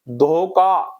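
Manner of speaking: धोखा with unaspirated k in place of kh; wrong pronunciation. Shown as a demonstration. Teacher showing students the mistake, धोखा with plain k. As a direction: say धोखा as dho-kaa. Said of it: "धोखा नहीं".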